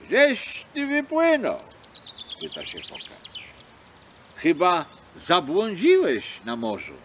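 a big seal's booming question; curious seal. Acted. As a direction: call out to the lost little fox. Seal questions lost fox.

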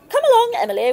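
put-on high, carrying call to a child. Mother calling Emily away from the storyteller, sharply.

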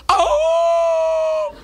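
very high, loud mock whimper; dog whine. Dog crying on the video call, a loud high yelp. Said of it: "Nangis tuh anjing".

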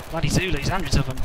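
put-on film quote in an Australian accent. Gamer quoting the film Zulu, Australian accent. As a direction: do a casual Australian take on a war-film line. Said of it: "an Australian accent for that rendition".

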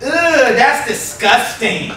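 slow, drawn-out mock disgust; a hint of a disapproving toddler; lightly voiced little son. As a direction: draw it out like a prim, disgusted kid. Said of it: "my son was like".

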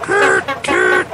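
low wailing car-horn voice. A narrator's reading. Old car Caroline hooting behind the train, low wail. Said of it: "she wailed".

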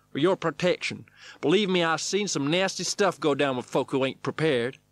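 high, loud cowboy coach; stunt wrangler. A narrator's reading. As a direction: holler instructions, stretching the words. Stunt wrangler warns him.

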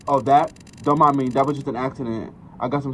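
loud nervous cover-up; shifty stranger voice. Acted. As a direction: brush it off loudly, guilty. Voicing suspicious game character.

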